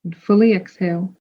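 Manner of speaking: calm meditation guide, long pauses between phrases; guided meditation. Real, not acted. Podcast host guides listeners into a full moon meditation, calm and spacious. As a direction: lead them gently inward, leaving space to breathe.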